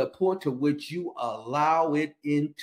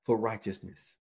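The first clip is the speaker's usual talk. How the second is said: slow declaration; 6 semitones lower, slower than usual. Shown as a demonstration. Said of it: "He says".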